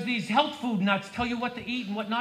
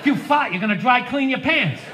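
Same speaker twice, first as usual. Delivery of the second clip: punchline yell; 4 dB louder than usual. Real, not acted. Punchline shout.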